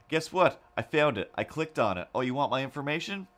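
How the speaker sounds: mock taunt. Retold taunting message.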